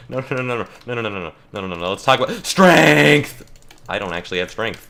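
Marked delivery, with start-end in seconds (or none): 0.1-3.4 panicked pleading. Real, not acted. Gameplay panic.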